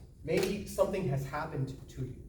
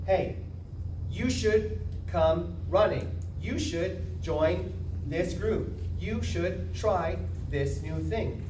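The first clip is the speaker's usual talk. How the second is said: slow, louder and a little higher, beckoning; inviting pitch; 4 semitones higher, 5 dB louder, much slower than usual. Shown as a demonstration. Demoing an invitational speech, a slow, eager invite. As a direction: call them in to join you.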